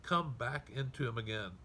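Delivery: crying out. Retold or imitated. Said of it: "cried to the Lord".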